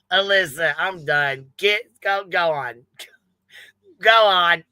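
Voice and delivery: mock sassy woman telling her to leave; Rowena voice. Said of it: "In my best Rowena voice".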